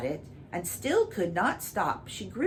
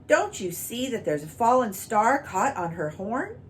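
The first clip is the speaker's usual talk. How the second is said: louder exasperated king; furious; 5 semitones higher, 4 dB louder than usual. Acted. King scolding his courtiers, furiously louder. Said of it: "He turned furiously upon the courtiers".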